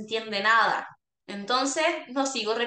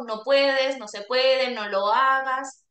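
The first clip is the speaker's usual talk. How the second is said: negative prohibiting; slower than usual. Shown as a demonstration. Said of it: "en vez de tanto".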